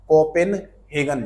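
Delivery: कोपेनहेगन spelled out slowly; slow drawn out. Shown as a demonstration. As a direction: stretch every syllable of कोपेनहेगन. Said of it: "slow repeat". (कोपेनहेगन धीरे धीरे)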